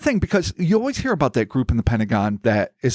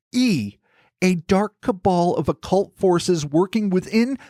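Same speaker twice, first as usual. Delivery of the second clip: deliberate storyteller with emphatic list-making; scripted narration; 3 semitones higher than usual. Acted. Host setting out theories about the replaced orb, scripted narration. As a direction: lay out each theory with formal, measured emphasis.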